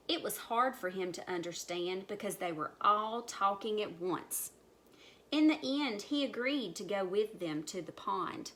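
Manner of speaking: measured storybook reading; story narration. A narrator's reading. Storyteller takes animals back to pond, measured narration. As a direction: lead up to what comes next.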